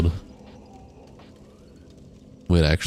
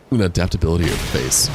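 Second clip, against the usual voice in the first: hiccuping. Real, not acted. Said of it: "After I'm done hiccuping".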